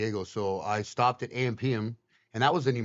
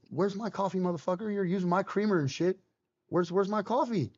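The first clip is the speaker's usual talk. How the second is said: mock demanding; 5 semitones higher than usual. Acted morning demand to cellmate.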